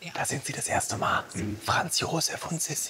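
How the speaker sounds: softly spoken, quiet and hushed. Touring the imperial couple's rooms with an audio guide, spoken quietly.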